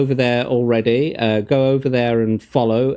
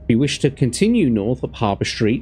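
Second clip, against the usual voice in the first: reading the passage aloud; steady storybook read; gamebook narration. Acted.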